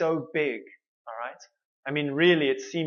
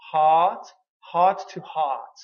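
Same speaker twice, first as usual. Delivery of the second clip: "heart" punched louder on its own; stressed heart; 3 dB louder, slower than usual. Shown as a demonstration. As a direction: hit the word "heart" hard. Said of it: "So my heart".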